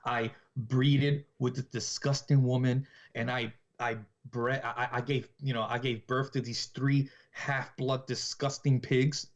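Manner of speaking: slow, mildly creepy retold confession. Killer talking about his own kids, mildly creepy. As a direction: spell it out slowly, with weight on the insults. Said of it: "this is so creepy".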